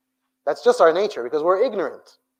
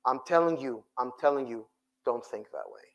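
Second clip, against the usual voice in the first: dropping low and soft, pleading; soft plea; 5 semitones lower, 6 dB quieter than usual. Real, not acted. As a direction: lean in and plead quietly. Preacher softens to plea.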